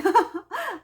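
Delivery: high, loud burst of laughter; real laugh. Real, not acted. Mother guessing her child wants money, high loud laugh.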